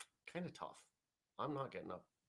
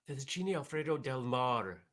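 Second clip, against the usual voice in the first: fettuccine Alfredo del Mar in a hammed-up Italian accent, a bit louder; bad Italian accent; 3 semitones higher, 5 dB louder than usual. Host naming his dinner in a playful, bad Italian accent. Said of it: "That's not a good Italian accent".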